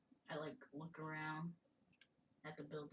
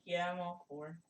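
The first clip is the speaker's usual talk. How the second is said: eager; 4 semitones higher, 10 dB louder than usual. Acted. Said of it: "I'm like".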